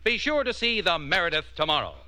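measured, polished announcer pitch; old-time radio commercial delivery; radio ad read. Acted. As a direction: sell it with deliberate emphasis on key words. Announcer reads television advert.

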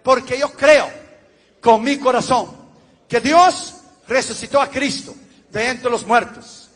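measured, solemn repeat-after-me prayer; leading a prayer. Acted. Pastor leading new converts through the sinner's prayer, solemn and measured.

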